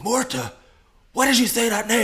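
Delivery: high, loud laughing line; overacted, laughing through it; hammed-up movie line. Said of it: "they did that scene where it's like".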